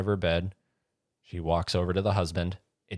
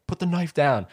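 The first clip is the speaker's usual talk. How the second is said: higher, louder mock order; cop command; 10 semitones higher, 5 dB louder than usual. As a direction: order her sternly, imitating a cop. Cops facing armed wife.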